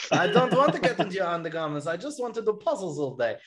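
a hint of a put-on French lilt; mock Logan voice from the speaker's impression; lightly mocked French accent. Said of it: "during this impression".

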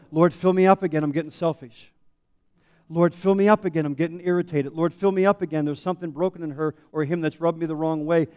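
loud pleading prayer to the Lord, repeating the plea; fervent prayer. Acted. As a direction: cry out to God for grace, loudly. Voicing a believer's fervent prayer.

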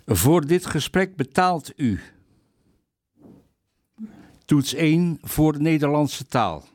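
stiff automated phone menu voice; robot voice. Retold or imitated. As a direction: read it like a machine prompt. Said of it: "zijn er computerstemmen".

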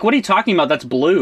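high-pitched, baffled objection; indignant mock protest. Imitating colorblind listeners objecting to the podcast, indignant. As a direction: protest as if they are talking nonsense.

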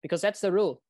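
mildly imitated South African accent. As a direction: play a South African umpire stating the rule. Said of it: "That's my best South African accent there".

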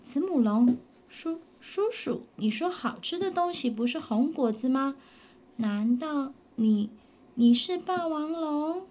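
lightly voiced child dinosaur, puzzled; 小恐龙的声音; little dinosaur voice.

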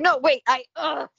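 high, loud flustered protest; panicked dad. Retold or imitated. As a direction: cry out like a horrified father. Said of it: "he's like".

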